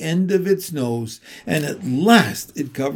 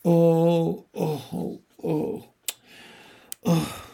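acted sobs fading away; sobbing; 2 semitones higher, much slower than usual. A narrator's reading. Tumnus crying before Lucy, sobbing in broken moans. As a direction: moan out broken, dwindling sobs. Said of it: "sobbed Mister Tumnus".

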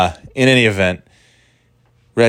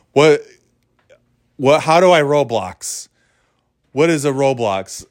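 higher, baffled mock-clueless voice; total dummy; 5 semitones higher than usual. Dad trolling kids' game players, acting like a dummy. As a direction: play dumb, puzzled by the simplest thing. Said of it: "act like a total dummy".

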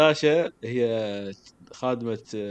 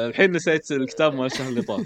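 teasing laugh; 2 semitones higher, 6 dB louder than usual. Real, not acted. Teasing friend about forgetting names.

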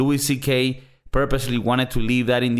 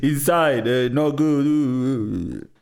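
staccato; much slower than usual. Retold or imitated. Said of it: "couldn't even articulate fucking words".

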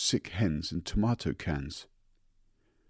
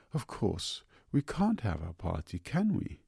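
pleading; 3 semitones higher than usual. Acted. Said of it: "she pleaded".

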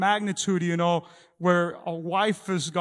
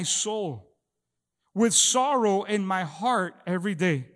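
louder, slow, aching questions to God; psalm of lament; 3 dB louder, slower than usual. Retold or imitated. Preacher reading David's lament to the congregation, aching. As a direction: plead as David in anguish. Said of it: "He goes".

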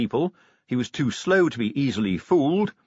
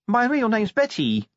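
high, sniffly confession; Tawny, sniffly; 11 semitones higher, 3 dB louder than usual. A narrator's reading. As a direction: confess it tearfully. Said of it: "said Tawny".

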